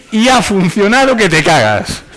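high, loud and drawn-out punchline; mock-enthusiastic quote. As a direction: crow the absurd testimonial slowly, up high. Punchline of the absurd quoted comment. (entusiasmo burlón, agudo, fuerte y lento)

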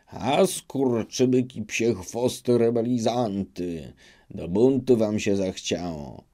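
a touch of bluster, not a full scream; mild mock yell. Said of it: "począł wrzeszczeć".

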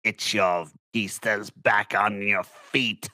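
loud, gruff barked greeting to the twins; gruff soldier. Acted. Old soldier cheering the fallen twins up, gruff shout. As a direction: bellow it like a rough old soldier. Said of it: "you just hear Clooney's like".

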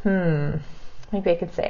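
usual speaking voice

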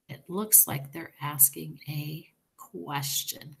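hushed aside, slowed down; whispering. Real, not acted. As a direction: whisper it to the class.

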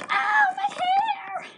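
very high, drawn-out squeal; mock cry of pain. Girl as teacher pulls slime from her hair, high mock wail.

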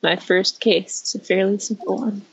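subdued, downcast narration; understated gloom; sounding down. Acted. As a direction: say it a touch depressed. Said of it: "Why do you sound so down?".

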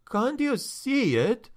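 high, slow desperate plea; imploring. Acted. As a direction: beg him to see it. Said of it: "he implored".

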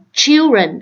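put-on "children" slowly with initial CH; CH sound. Shown as a demonstration. Teacher modelling children for learners, CH sound. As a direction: begin "children" on a clear CH. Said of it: "âm chờ".

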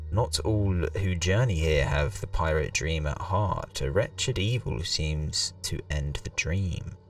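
slow, solemn storyteller voice; dramatic reading. Acted. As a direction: read it like an ominous legend. Reads game intro dramatically.

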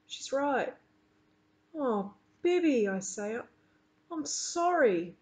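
lively read-aloud to a class; reading a story aloud. A narrator's reading. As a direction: read the chapter to the children with expressive character lines. Teacher reads novel aloud.

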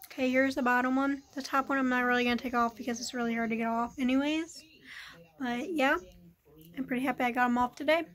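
talking with a retainer in; speech around a retainer; wearing a retainer. Real, not acted. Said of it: "I already have my, um, retainers in".

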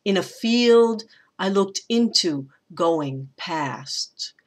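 measured scansion, long stress on FIELD; two light syllables into "field", then "past" set alone; anapestic stress. Shown as a demonstration. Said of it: "two unstressed and a stressed".

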